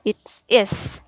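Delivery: is with a long hissing s; drawn-out s like a snake. Shown as a demonstration. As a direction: stretch the s of is like a snake hiss. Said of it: "sound like a snake".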